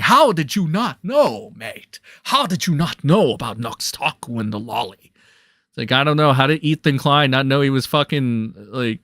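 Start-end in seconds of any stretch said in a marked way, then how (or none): 0.0-5.1 a hint of a British accent; lightly voiced Aussie-British mate; mock British critic. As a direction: parrot the critique with a British lilt.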